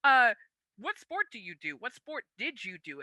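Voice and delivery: high, loud, overeager hello; excitedly calling out to shoppers to recruit them; eager approach. Retold or imitated. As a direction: flag down a stranger brightly. Recruiting strangers at the store.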